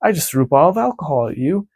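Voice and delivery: smug hero gloating, pitch climbing; cocky taunt. Retold or imitated. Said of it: "Usopp's like".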